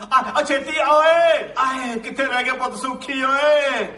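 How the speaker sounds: lightly voiced old uncle.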